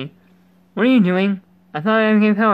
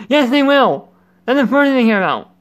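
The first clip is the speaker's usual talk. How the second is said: emphatic; 5 semitones higher, 5 dB louder than usual. Acted. Reading character line emphatically.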